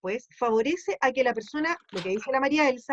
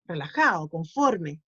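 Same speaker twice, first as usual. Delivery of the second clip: relaxed contentment; 7 semitones lower than usual. Shown as a demonstration. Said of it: "no es súper alegre".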